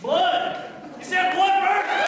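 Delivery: loud, high, delighted; gleeful mock cheer. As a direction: relish the word blood. Mascot reacts to boy's choice.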